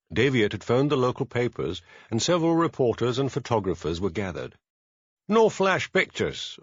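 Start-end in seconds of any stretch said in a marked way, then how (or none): 5.3-6.6 ordered. A narrator's reading. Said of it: "ordered Hamish".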